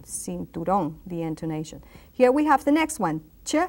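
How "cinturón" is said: cinturón with the weight on "ón"; stress on final ÓN. Shown as a demonstration. Teacher showing what the accent mark does, stressing "ón". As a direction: lean on the last syllable of cinturón. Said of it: "please stress the pronunciation".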